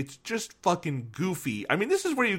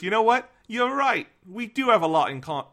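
high Cockney cartoon cat voice; 8 semitones higher than usual. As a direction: slip into Cockney as Meowth. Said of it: "now I'm doing Cockney".

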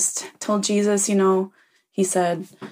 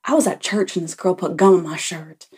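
aggrieved caller. Pretend. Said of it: "I wish I could have heard that phone call".

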